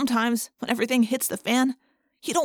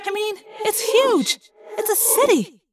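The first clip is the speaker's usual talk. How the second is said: high, loud, amazed outburst; amazed exclaim; 13 semitones higher, 4 dB louder than usual. A narrator's reading. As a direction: marvel at the huge ship. Rachel amazed at huge ship.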